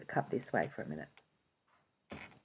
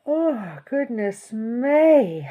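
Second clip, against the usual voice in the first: yawned words, drawn out slowly; yawning; 6 semitones higher, 11 dB louder, much slower than usual. Real, not acted. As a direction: speak through a big yawn. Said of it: "Where did that come from?".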